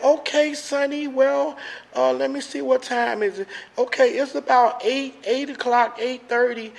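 lightly voiced old phone lady, unhurried. Recovering man retells the AA phone lady, lightly mimicking her voice. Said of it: "She sounded like she was an old white lady".

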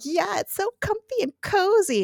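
mock-cuddly, high-pitched gush; cozy gushing. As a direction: play up how snug and cosy it is. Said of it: "cozies up to Graham".

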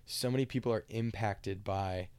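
words pushed through a burp. Real, not acted. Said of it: "sorry, I had to burp there".

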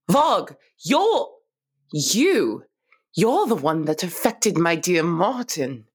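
gasping recognition; shocked realization. Acted. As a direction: catch a breath and accuse. Gasps, realizes culprit.

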